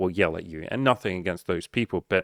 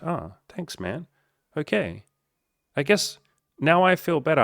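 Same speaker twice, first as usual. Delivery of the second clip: higher, small relieved voice of a comforted guy; higher, timid thanks turning into relief; relieved viewer; 8 semitones higher than usual. Retold or imitated.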